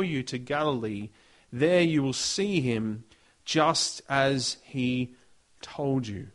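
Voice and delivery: measured, hushed Bible reading; scripture reading. Acted. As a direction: read the passage with reverent weight. Reads scripture passage aloud.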